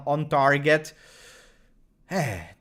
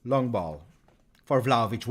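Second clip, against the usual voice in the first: ordinary delivery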